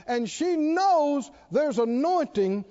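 slow emphatic preaching cadence; building preaching. Acted. Preacher building on the woman's faith, emphatic preaching. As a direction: lean into each anointing line.

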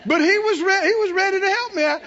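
laughing through the words; can't stop chuckling while telling it; real laughter breaking in. Real, not acted.

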